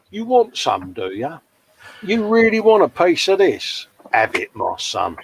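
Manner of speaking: mock Cockney tough guy taunting; a London hard man squaring up; Cockney Yoda. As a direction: give it large in a broad Cockney accent. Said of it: "In a broad Cockney accent".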